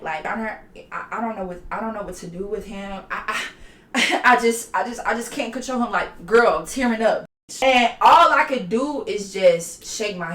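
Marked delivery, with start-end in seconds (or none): 0.3-5.9 much softer, halting, sad imitation of the mom; a lightly voiced, hesitant, tearful mother; mock sad mother. Retelling the mom telling the judge she's lost control, softly and sadly. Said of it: "She was more sad".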